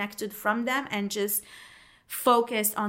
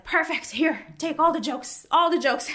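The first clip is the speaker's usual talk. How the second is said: much higher, louder mock voice of eager colleagues; mocking coworkers; 7 semitones higher, 3 dB louder than usual. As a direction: ham up the coworkers dumping jokes on her. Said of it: "they're like".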